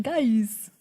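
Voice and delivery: a lightly voiced Walken, flat and falling; Christopher Walken impression. Friend mimicking Christopher Walken as King Louis, lightly voiced. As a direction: drop the word like Walken would, barely changed. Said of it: "I have to do an impression of him".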